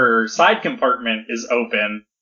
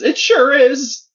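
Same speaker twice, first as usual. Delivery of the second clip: high, slow mock yell; Uraraka retorting; 14 semitones higher, 4 dB louder, slower than usual. Uraraka answering Toga about her precious toy, forceful yell. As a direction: yell it, stretching the words out. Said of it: "Uraraka says".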